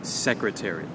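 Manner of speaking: "secretary" stressed on the opening SEC; stress on first syllable. Shown as a demonstration. Teacher modelling a word for learners, first-syllable stress on "secretary". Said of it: "will happen on the first".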